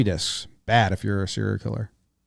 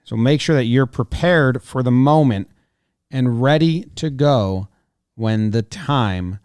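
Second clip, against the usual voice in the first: upbeat sponsor read. Acted. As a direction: sell it like a radio ad. Host reads sponsor ad.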